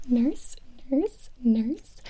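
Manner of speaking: calling for the nurse. Acted. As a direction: call across the room. Calling the nurse mid-whisper.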